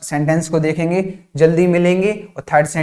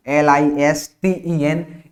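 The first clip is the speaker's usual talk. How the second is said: spelling out slowly; much slower than usual. Shown as a demonstration. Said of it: "spelling क्या है".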